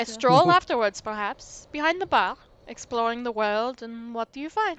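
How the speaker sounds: lightly French, flirty and coy; hint of a French lilt, teasing the investigator; mild French accent, playful. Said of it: "the accent".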